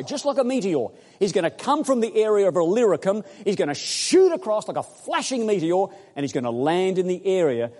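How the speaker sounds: loud, high, vivid build; excited preaching. Real, not acted. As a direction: paint the meteor streaking across. Preacher dramatizing meteor.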